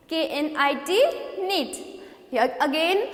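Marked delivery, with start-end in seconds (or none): 1.4-1.8 knit said as nit, the K silent; model word. Shown as a demonstration. Teacher models knit for students. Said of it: "next is knit".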